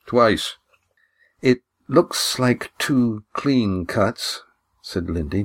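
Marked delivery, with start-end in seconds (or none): 1.4-4.4 steady voice. Acted. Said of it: "deliberately keeping her voice steady".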